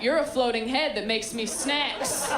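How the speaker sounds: a grandchild reacting to grandma's oversharing, disgusted; disgusted outburst. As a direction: shut grandma down hard. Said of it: "I'm like".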